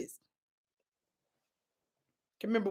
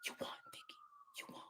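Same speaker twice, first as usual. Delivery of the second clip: imitated whisper; 28 dB quieter, much faster than usual. Inmate conceding to Vicky, whispering. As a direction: whisper the surrender. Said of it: "she whispered it".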